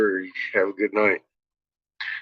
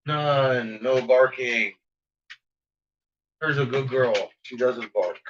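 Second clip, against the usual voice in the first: soft, gentle coaxing; soft praise to settle a dog; calming the dog; 6 dB quieter than usual. Real, not acted. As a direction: quietly reason with a barking dog. Soothing the dog to stop barking.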